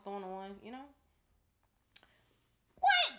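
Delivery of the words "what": sharp high, loud what; startled what. Real, not acted. Cohost reacting to something unseen, high and startled. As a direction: blurt it out in shock. Sudden reaction mid-conversation.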